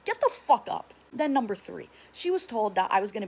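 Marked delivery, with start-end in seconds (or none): 0.0-0.9 mock furious yell, high and loud; hammed-up angry shout; retold angry outburst. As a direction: imitate an exasperated order, voice leaping up. Acting out mother furious during delivery.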